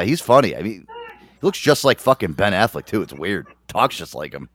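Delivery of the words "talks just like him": usual speaking voice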